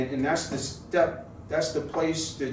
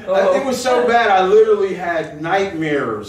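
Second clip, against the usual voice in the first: laughing; 6 semitones higher, 10 dB louder, slower than usual. Real, not acted. Laughing while telling UPS story.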